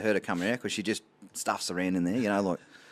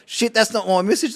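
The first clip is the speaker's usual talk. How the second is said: high, loud startled mock panic; shocked realisation; 10 semitones higher, 4 dB louder than usual. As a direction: caught out, blurting in alarm. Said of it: "I turned around and I".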